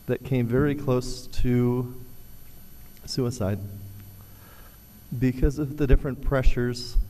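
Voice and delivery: steady voice with shaky moments; shaking voice. Real, not acted. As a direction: voice trembling with emotion, held steady. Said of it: "my voice is a little shaking a little bit".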